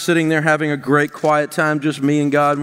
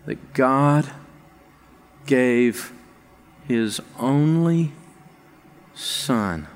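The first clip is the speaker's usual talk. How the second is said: tearful; 3 semitones lower than usual. Retold or imitated. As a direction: let the emotion catch on the words. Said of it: "I just started crying".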